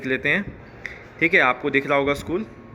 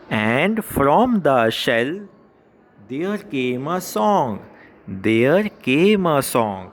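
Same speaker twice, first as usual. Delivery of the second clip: very slow, word-by-word poem reading; slow read-aloud; much slower than usual. Shown as a demonstration. Teacher reading a poem line to schoolchildren, slow and measured. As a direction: draw out each word for pupils to follow.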